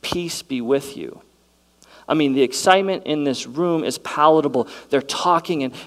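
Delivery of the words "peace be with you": calm. Acted. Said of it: "said to them".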